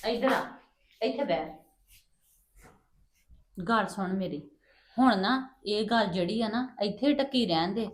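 mother's soft confiding voice to her son; hushed secret talk. Acted.

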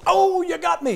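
high, loud hammed-up death cry; dying cowboy. Preacher mocking an old western death scene, hammed-up. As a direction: ham up a shot cowboy going down. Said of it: "the guy goes".

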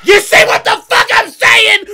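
high, full-volume outraged shout; startled yell. Real, not acted. Player just ambushed proves a point, startled yell. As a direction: yell it in shock. Screaming right after being ambushed.

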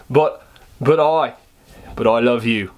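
badly faked Australian huntsman; terrible Australian accent. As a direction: act the huntsman in bad Australian. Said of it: "This is a terrible Australian accent".

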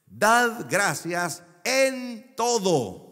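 verse read slowly, each word weighed; solemn, drawn-out scripture reading; slow emphatic verse. Shown as a demonstration. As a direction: spell out the verse word by word for the congregation. Reading the key verse aloud.

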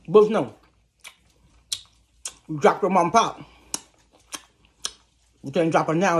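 terse, accusing dad voice, broken by long pauses; Baron. Acted. Daddy in bed scolding Tracy over dropped pop, accusing. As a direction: accuse in short separate phrases, lightly in character. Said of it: "Y'all, this Baron".

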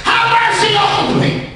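high, slow cry for mercy; cranked-up plea. Acted. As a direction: crank up the begging call. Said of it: "He crunk it up".

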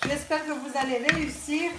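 stuffy head cold voice; talking through a blocked nose. Real, not acted. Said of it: "je suis un petit peu enrhumée. J'ai le nez bouché". (voix enrhumée, nez bouché)

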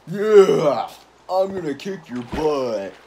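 exaggerated drawn-out tough talk; hammed-up slow mock threat; mocking self-impression. Player mimicking how it makes them sound, mocking self-impression. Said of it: "That's what it makes me sound like".

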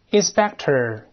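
inspector read clearly as the English word; model reading. Shown as a demonstration. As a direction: say inspector for the class to repeat. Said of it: "再读检查员".

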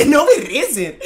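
loud, high, drawn-out laughing protest; indignant protest. Real, not acted. Streamer told his accent is terrible, loud indignant protest. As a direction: protest loudly, half laughing.

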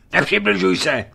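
high, loud cry to stay back; a frightened youth shouting a warning; shouted warning. Acted. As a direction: yell at him to keep away. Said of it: "vykřikl neznámý".

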